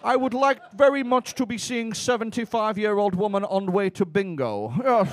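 lightly put-on Dutch accent. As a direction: imitate a Dutch English speaker. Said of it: "that's my Dutch accent".

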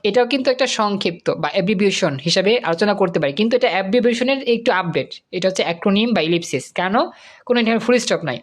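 ordinary talk, nothing marked

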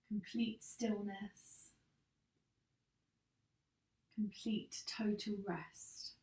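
calm yoga nidra guidance with long pauses; guided meditation. Acted. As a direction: guide them gently into rest, unhurried, phrase by phrase. Leads yoga nidra relaxation.

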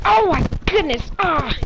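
high, loud gasp of alarm; startled exclamation. Real, not acted. Gamer caught off guard in play, startled exclamation. Startled while playing the game.

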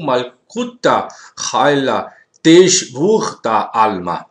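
slow, careful Aramaic words; Aramaic reading. Shown as a demonstration. Teacher reading Aramaic to viewers, slow and careful. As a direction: spell out the Aramaic slowly for the class. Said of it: "Agora eu vou parafrasear".

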